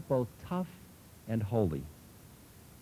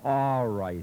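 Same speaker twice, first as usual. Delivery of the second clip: a louder hollered reply; 4 dB louder than usual. A narrator's reading. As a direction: holler it at him. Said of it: "he hollered".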